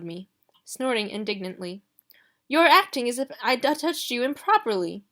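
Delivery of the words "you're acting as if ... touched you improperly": higher, louder affronted huff; scandalised at the very idea; offended Marley. Acted. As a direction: butler stung by Ruby's accusation.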